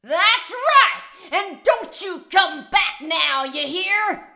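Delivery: gloating shout. Acted. Gloating shout at fleeing player.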